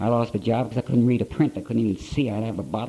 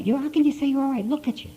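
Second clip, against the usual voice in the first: much higher, despairing mother's cry; imitating distraught mother. Weeping mother answers her son's denial, high and despairing. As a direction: voice her heartbroken disbelief. Mother crying over drunk son.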